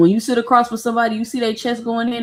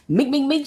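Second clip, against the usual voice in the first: imitated punch noises; 6 semitones higher than usual. Imitating quick punches in a fight.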